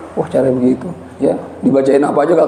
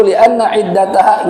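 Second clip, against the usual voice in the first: recitation; slower than usual. Shown as a demonstration. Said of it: "Kenapa begitu?".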